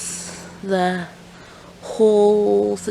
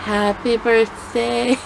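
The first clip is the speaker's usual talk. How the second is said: awkward happy birthday; 3 semitones higher, much slower than usual. Shown as a demonstration. Girl awkwardly greets her crush at his party, slow and shy. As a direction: mumble it shyly to a crush. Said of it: "I'm acting this out for you guys".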